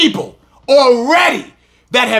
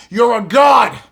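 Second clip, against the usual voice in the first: preaching shout. Real, not acted.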